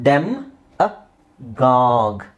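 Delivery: ಡೆಮ್, ಅ, ಗಾಗ್ with a pause between each; teacher sounding out ಡೆಮ್ ಅ ಗಾಗ್; syllable by syllable. Shown as a demonstration. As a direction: break it up: ಡೆಮ್ - ಅ - ಗಾಗ್, last part drawn out. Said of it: "ಏನಿದು".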